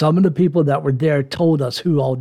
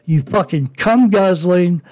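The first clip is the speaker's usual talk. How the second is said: angry rant; 4 semitones higher than usual. Real, not acted. Cursing out the man who wronged his father, enraged. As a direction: let the anger boil over.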